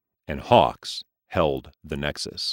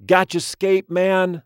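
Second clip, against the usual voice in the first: high, slow barked street call; 13 semitones higher, 5 dB louder, slower than usual. Acted. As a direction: bark it like a street hustler. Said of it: "barked a low-life data dealer".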